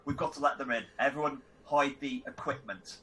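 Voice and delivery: pointed instruction, slowing at the end; meaningful. Acted. Player telling the group to hide things, meaningfully. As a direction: say it meaningfully, drawing out the last words. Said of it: "I say meaningfully".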